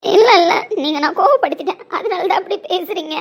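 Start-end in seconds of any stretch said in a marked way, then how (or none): 0.0-0.5 frantic no. Acted. Frantic denial in quarrel.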